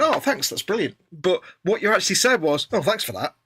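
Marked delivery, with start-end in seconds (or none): 0.0-1.0 bright, genuinely pleased thanks; mean every word of the thanks; sincerely grateful. Retold or imitated. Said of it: "you basically went". 2.7-3.3 flat thanks that lands like an insult; accidentally sarcastic. Retold or imitated. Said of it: "it came out as if you were saying, "Screw you".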